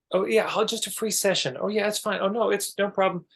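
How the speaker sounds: high, airy mock people-pleaser voice; sugary people-pleaser. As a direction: sing it out like an eager doormat who insists it's fine. Mocking the overgiving nice person.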